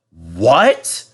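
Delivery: surprised. Acted. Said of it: "cried all the passengers".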